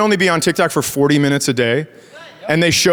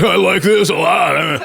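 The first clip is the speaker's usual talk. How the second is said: dazed viewer; slower than usual. Retold or imitated. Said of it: "Everyone's like".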